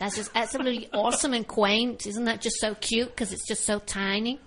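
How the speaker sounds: bad American accent. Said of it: "That's a really bad American accent".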